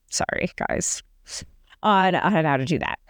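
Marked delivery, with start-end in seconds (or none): 0.1-1.0 whispered apology. Real, not acted. Apologizing under breath for noise.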